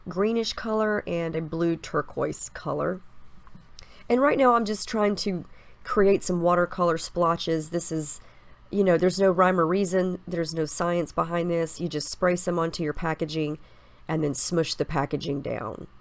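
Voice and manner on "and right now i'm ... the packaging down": blocked nose, stuffy voice. Real, not acted. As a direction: talk through a stuffy head cold. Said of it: "sorry if I sound a little stuffy today".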